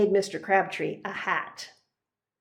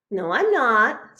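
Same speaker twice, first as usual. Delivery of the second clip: defensive; 2 semitones higher, 6 dB louder than usual. Acted. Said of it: "said Nate".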